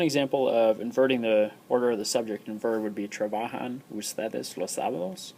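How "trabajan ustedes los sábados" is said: "Trabajan ustedes los sábados?" with the pitch going up on "sábados"; rising question tune. Shown as a demonstration. Spanish teacher demonstrating a question for students, pitch rising at the end. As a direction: let "sábados" climb at the end. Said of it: "you raise the inflection of your voice at the end".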